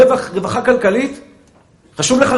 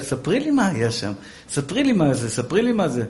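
quieter wheedling husband; softer coaxing; 6 semitones lower, 8 dB quieter than usual. Retold or imitated. Husband softly pressing his wife for gossip. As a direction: nudge her sweetly for gossip.

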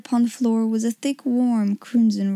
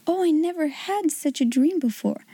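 put-on awed little girl; 4 semitones higher than usual. Sarah's voice, amazed.

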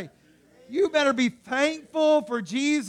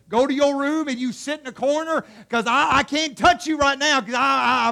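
raised-voice parent holding back; aggravated parent; 3 semitones higher, 6 dB louder than usual. Acted. Parent too mad to touch the children, aggravated. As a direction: send the child off, at the end of your patience. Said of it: "So aggravated, so mad at him".

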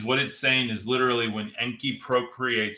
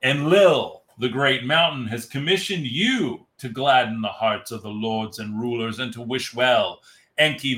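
movie trailer voice. Shown as a demonstration. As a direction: read it like an epic trailer. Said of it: "I'll do the, the, the movie voice".

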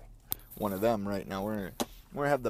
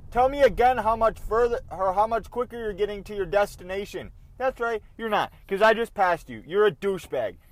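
angry shout; 7 semitones higher, 5 dB louder than usual. Retold or imitated. Ranting at another driver.

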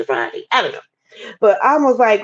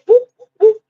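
high whooping sound effect; high mock whooping; 4 dB louder than usual. Showing how things spun haywire with a high whoop.

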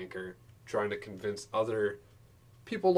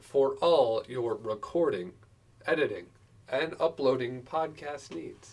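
slow ad slogan voice; 3 semitones higher, 5 dB louder than usual. Pretend. Mock ad slogan.

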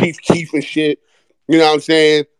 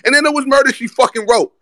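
pitched way up, crowing the win; hyped exclaim; 10 semitones higher than usual. Real, not acted. To his viewers about the comeback win, excited crowing. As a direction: gloat like the game's already over.

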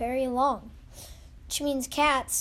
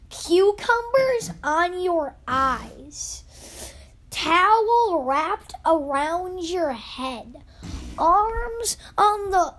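slow, higher and louder, savoring each image; dreamy spa fantasy; 4 semitones higher, 4 dB louder, slower than usual. Pretend. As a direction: paint the lazy spa dream slowly. Dreamy spa life description.

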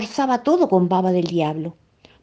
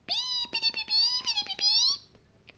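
very high soft chirping; birdsong; 6 dB quieter than usual. A narrator's reading. Bird sings sweetly from a branch above Felipito. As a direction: whistle it like a little bird. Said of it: "el pájaro que cantaba tan lindo".

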